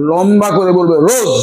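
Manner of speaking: teacher modelling রোজ with a long, clear o; long o in rose. Shown as a demonstration. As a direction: stretch the vowel of রোজ, clean and clear. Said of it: "লম্বা ও করে বলবো".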